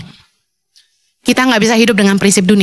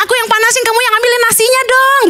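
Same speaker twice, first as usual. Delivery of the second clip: friendly teamwork suggestion; 10 semitones higher, faster than usual. Shown as a demonstration. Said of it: "gitu kan ya".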